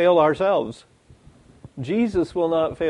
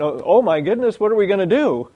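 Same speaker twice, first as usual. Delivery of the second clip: flustered, rising mock alarm; hammed-up fluster; mock panic; 5 semitones higher, 4 dB louder than usual. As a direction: fret aloud as if jumping up. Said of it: "they expect Jesus to jump to his feet".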